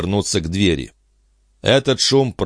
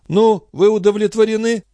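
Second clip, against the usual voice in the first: resigned king. Acted. King with red cap.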